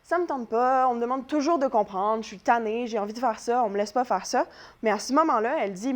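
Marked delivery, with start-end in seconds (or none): 0.0-4.5 mildly complaining. Retold or imitated. Teacher voices Antigone's grievance, mildly complaining. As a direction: lightly act out a fed-up complaint. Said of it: "elle se plaint un peu".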